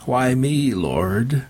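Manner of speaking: high plaintive appeal, falling away; anguished plea. A narrator's reading. Dying preacher asks heaven why, anguished. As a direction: plead upward to God.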